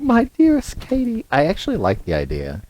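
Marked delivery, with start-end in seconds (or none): 0.0-1.3 1 mock posh letter voice. Echoing letter greeting higher.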